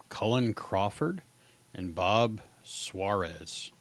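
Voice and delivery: "Cullen Crawford" and "Bob Suarez" spoken slowly, each syllable clear; careful pronunciation. Shown as a demonstration. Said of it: "Let me pronounce these things".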